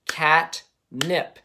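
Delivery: cat-nip split into two beats, clapped; teacher clapping "catnip" into beats; clapped into syllables. Shown as a demonstration. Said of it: "first I'm clapping that".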